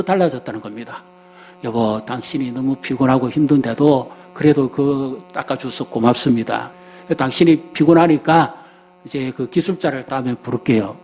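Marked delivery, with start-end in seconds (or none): 1.6-11.0 gentle wife. Shown as a demonstration. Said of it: "이렇게 말했다면".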